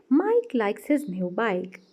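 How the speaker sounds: Mike likes his new bike spelled out slowly; careful teacher's model reading; slow, deliberate example. Shown as a demonstration. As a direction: read each word slowly so the K sounds stand out. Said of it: "An example of consonance is".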